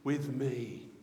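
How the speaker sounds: loud, drawn-out delighted exclamation; big, slow, thrilled delivery; excited. Acted. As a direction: proclaim it like an overjoyed father. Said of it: "he is so excited".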